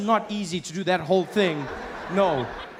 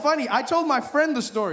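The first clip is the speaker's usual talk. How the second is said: usual speaking voice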